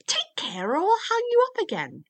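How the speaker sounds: high, loud, quick threat; scolding storybook threat. A narrator's reading. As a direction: warn them sharply, pitch leaping up. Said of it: "At this he grew angry".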